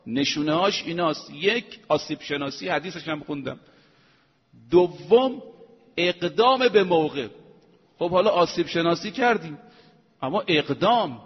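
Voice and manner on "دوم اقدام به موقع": loud, deliberate listing of the second point; emphatic announcement. Real, not acted. Preacher announcing his second point, loud and deliberate. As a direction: proclaim the heading to the congregation. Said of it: "preacher announcing second sign".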